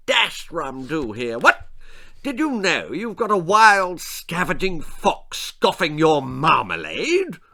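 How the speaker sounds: a lightly voiced pompous lord; posh lord. Lord Percy to Mr Smith.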